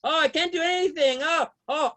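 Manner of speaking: imitating a helpless coffee drinker's moan; hammed-up self-pity; mock complaining. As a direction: groan lightly in mock helplessness. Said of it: "they're always complaining".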